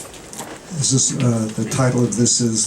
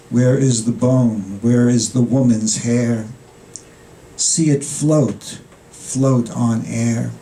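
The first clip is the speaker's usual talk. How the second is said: deliberate recitation, questions set apart by pauses; poetry reading; slower than usual. Acted. Poet reads a poem about denied horror, measured recitation. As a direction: read it as verse, lingering on line endings.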